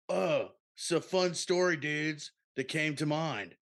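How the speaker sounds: lightly voiced chill sea turtle; Crush voice. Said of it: "You sound like Crush right now".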